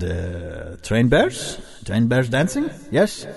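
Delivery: put-on ringmaster addressing boys and girls; a hint of an awkward ringmaster; kids show host.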